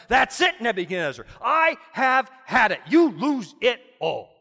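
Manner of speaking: loud, final divine verdict; voice from heaven. Acted. Heaven's voice condemning the king, loud and final. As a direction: pronounce judgment from above. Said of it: "he hears a voice falling from heaven".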